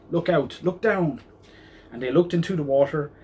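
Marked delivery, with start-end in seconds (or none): 0.1-1.2 yelled. A narrator's reading. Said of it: "who yelled".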